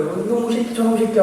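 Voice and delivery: high-pitched imitated outburst; retold fury. Missionaries scolding the intruder on video call, mock fury. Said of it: "화를 무지하게 내시는 거예요".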